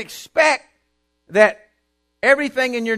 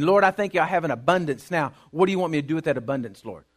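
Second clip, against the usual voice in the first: grateful prayer; 3 semitones lower, faster than usual. Retold or imitated. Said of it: "on my porch saying".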